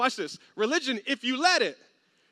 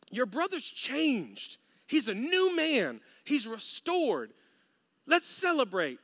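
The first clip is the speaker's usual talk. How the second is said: gentle plea; slower than usual. Retold or imitated. Father pleads gently.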